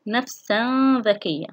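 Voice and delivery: hide the tanween of نفسا before ذكية; tanween ikhfa. Shown as a demonstration. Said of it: "أما في حالة التنوين". (إخفاء التنوين بغنّة في نفسا ذكية)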